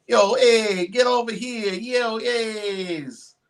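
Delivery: hammed-up Brooklyn yo hey; Brooklyn accent. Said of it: "I do that shit all the time".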